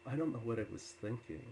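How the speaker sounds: understated, sober self-reproach; mildly sorrowful apology. Retold or imitated. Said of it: "there was so much sorrow in him".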